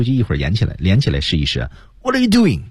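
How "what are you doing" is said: squeezed high voice. Shown as a demonstration. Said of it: "压着自己的声音向下压".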